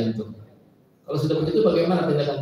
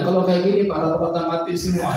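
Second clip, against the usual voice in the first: mock panic; 5 semitones higher, 4 dB louder than usual. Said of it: "Jangan bilang".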